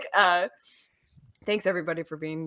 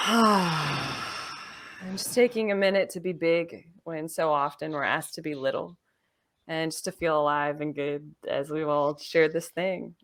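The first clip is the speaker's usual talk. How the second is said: guided calm close; 2 semitones lower, slower than usual. Acted.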